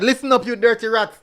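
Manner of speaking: reading it out through a laugh; amused reading, laugh breaking in. Real, not acted. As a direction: chuckle over the comment as you read. Reading a cheeky viewer comment.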